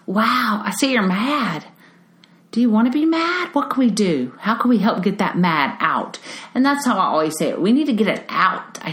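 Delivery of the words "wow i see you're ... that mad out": gentle acknowledgment. Shown as a demonstration. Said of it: "The greatest thing we can do is say".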